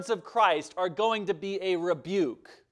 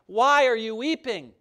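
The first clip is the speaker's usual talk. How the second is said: gently asking, a light tender touch; 3 semitones higher, 4 dB louder than usual. Retold or imitated. Preacher voicing Jesus asking Mary, lightly tender. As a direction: ask her kindly, with care. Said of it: "Jesus tenderly asked her".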